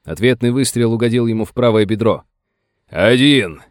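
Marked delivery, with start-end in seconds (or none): 2.9-3.6 louder counting out; shout. Acted. Wounded sheriff counting the shots, shouting. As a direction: call out the count to Sam. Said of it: "крикнул Крамер".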